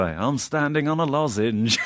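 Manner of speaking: slow, lightly voiced bad impression line of a singer. Rich's odd catchphrase in a singer's voice, lightly imitated. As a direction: drawl it as a weird singer impression, lightly. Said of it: "one line that he always used to say".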